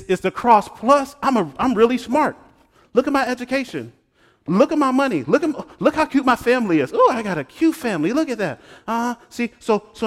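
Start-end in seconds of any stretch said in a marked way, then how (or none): 0.0-8.6 mock bragging. Parodying proud believer.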